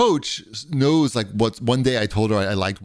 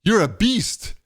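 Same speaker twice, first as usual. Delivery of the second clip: impressed praise; 10 semitones higher, slower than usual. Retold or imitated. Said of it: "he's like".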